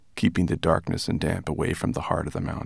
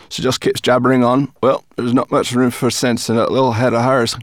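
loud, raised brownie voice; scornful brownie; 5 semitones higher, 8 dB louder than usual. A narrator's reading. Brownie belittling rat to the dragon, scornful. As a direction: dismiss her loudly and scornfully.

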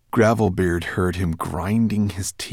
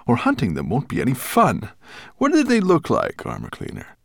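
loud, quicker growl leaping up in pitch; Nettlebrand growling; 6 semitones higher, 4 dB louder than usual. A narrator's reading. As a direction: growl a demand at the armor cleaner. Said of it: "growled Nettlebrand".

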